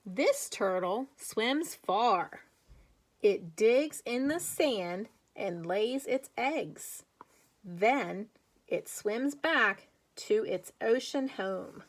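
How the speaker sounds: put-on slow, clear read-aloud for young kids; reading to children. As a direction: read it slowly, like a picture book for little ones. Teacher reads picture book aloud.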